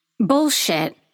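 dismissive, scoffing brush-off. Reading a story aloud, a character dismissing a claim: scoffing. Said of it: "Io scoffs".

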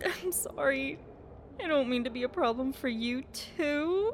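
tearful speech broken by sobs. Apologizing to someone annoyed that the sobbing disturbs their reading, crying. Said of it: "Stop crying".

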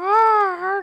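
very high, very loud, shrill, drawn-out yell. Imitating the other speaker's sister on the day after her birthday: impression of your sister. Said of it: "That's my impression of your sister".

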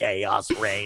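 put-on old-school eighties video game voiceover announcer voice. Quoting a favorite game line: imitating late-eighties game voiceover. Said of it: "Where the guy's like".

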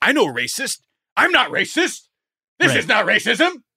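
very high, shrill, defensive shout. Acting out how some people respond, mock shouting. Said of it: "Why are you shouting then?".

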